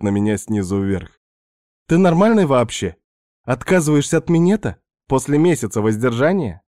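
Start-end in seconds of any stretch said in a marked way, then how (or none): 1.9-6.6 higher, incredulous teasing voice; mock disbelief, pitched up; Svetka's voice. Narrator voicing Svetka amazed at his refusal, higher incredulous voice.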